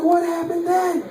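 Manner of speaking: high, drawn-out question; acted-out agitated prodding; strained questioning. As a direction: stretch out the question in high-pitched disbelief. Same question repeated, more strained.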